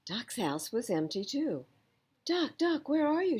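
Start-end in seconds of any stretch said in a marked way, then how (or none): 2.2-3.4 Hare calls high and loud; calling out. A narrator's reading. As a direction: call into the empty house. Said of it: "shouted Hare".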